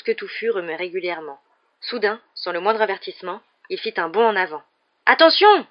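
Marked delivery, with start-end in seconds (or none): 5.1-5.7 loud, high warning shout; urgent shout, pitched way up; alarmed cry. A narrator's reading. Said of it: "s'écria Ron".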